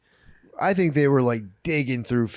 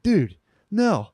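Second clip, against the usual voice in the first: retold warning; 8 semitones higher than usual. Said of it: "I was like".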